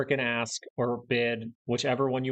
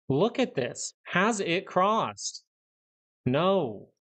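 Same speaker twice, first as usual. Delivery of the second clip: patient dad voice; 5 semitones higher, much slower than usual. Real, not acted. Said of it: "I'm sounding like a dad right now".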